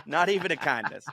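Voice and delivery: amused, words breaking into a laugh; cracking up while saying it. Real, not acted. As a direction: repeat it through real laughter. Cracking up at own quote.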